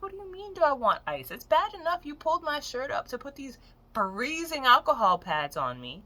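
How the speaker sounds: worked-up, high indignant comeback; indignant retort. Retold or imitated. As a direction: protest in disbelief, punching the key words. Acted indignant reply to being offered ice.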